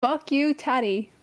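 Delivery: understated mock put-down; deadpan insult. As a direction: drop the insult quietly, as a joke. Deadpan insult instead of requested line.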